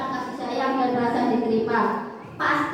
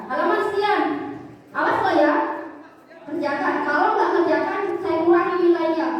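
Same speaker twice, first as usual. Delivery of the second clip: mild threat; 2 semitones higher than usual. Retold or imitated.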